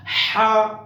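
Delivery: a throaty Ha; throat letter. Shown as a demonstration. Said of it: "throat word".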